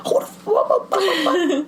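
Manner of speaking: mock high-pitched outburst; squealed, sputtering comic tirade; instant blow-up. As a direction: imitate a girl flying off the handle. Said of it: "she goes on to thirty immediately".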